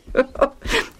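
quiet little chuckle; soft chuckle. A narrator's reading. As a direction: laugh softly to yourself. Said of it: "Lucius chuckled as he thought of it".

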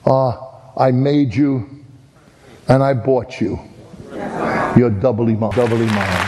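cradle the boat with the words; tender. Retold or imitated. Boy holds his boat.

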